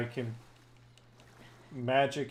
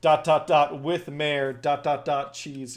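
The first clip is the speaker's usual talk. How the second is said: reading aloud haltingly; 6 dB louder than usual. Shown as a demonstration. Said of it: "I'll read it slowly".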